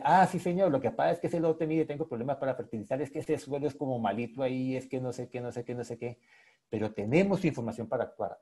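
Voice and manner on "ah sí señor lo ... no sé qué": mock excuses. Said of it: "va uno atrás y dice".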